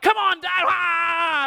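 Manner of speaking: put-on high, loud whiny kid protest. Sons protesting to their dad mid-lightsaber fight, high and loud. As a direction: whine like a cheeky boy.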